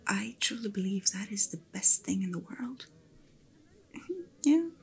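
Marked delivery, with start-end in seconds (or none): 3.9-4.7 whispered laugh. Acted. Light laugh in whispered chat.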